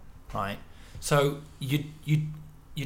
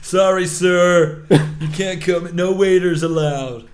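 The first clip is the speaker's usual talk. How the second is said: posh guard voice; 5 semitones higher, 11 dB louder, slower than usual. Retold or imitated.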